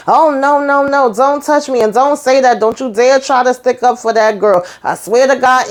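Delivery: upset refusal. Retold or imitated. Karen rejecting Andy's comfort.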